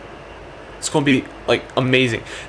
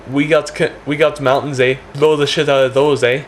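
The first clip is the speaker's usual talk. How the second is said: lightly mock a Canadian boast; improvised Canadian; 3 semitones higher, 3 dB louder than usual. Canadians answering the nuclear threat, improvised Canadian voice. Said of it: "Canadians are going to be like".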